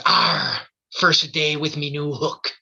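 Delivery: lightly voiced old pirate. Pirate punchline in joke.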